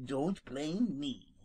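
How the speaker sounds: slow soft retort. Acted. Skunk retorting to Peter, slow. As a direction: shrug it off. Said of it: "retorted Jimmy".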